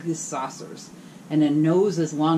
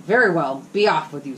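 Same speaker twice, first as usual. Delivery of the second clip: gruff troll dismissal; 6 dB louder than usual. Acted. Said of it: "said the troll".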